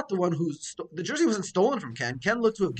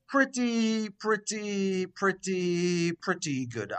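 mock catchphrase rating; 2 semitones higher, much slower than usual. Shown as a demonstration.

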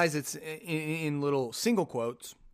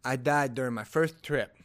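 lightly voiced lisping boxer; tentative stab at a lispy boxer impression; just a hint of the lisp; Mike Tyson; 3 semitones lower than usual. Shown as a demonstration. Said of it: "it's just gonna be the lisp".

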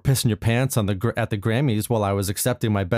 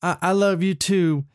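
teary reply; 7 semitones higher than usual. Acted. Tearful reconciliation reply.

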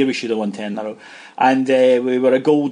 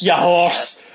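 put-on drunk pal; 4 semitones higher than usual. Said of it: "it's a".

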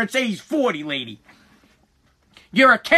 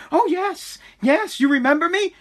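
higher, flattered gush; mock delight; 7 semitones higher than usual. Actress thinks she got noticed, imitated happy gushing. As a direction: play thrilled to be recognized. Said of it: "she gets all happy".

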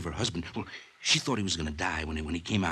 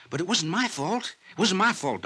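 high, strained pleading; desperate plea; 11 semitones higher, 4 dB louder than usual. Acted. Foreman to the investigator, desperate plea. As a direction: beg to be believed.

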